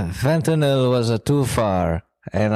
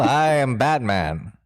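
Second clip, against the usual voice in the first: Batman voice. Acted. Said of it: "is that how Batman talks".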